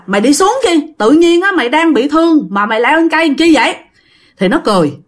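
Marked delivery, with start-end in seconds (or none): 0.0-3.8 calling up. Retold or imitated. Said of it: "mọi người mới nói rằng đó là".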